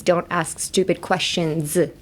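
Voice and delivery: slow, clear teaching read; slow model sentence. Shown as a demonstration. Teacher reads the phrase slowly to the class. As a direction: say each word slowly for learners. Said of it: "But in this sentence".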